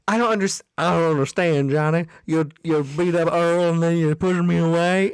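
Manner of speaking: put-on Southern-accented movie heroine; imitated Southern accent. Heroine protesting to Johnny, lightly imitated Southern accent. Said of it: "'Cause later she's like".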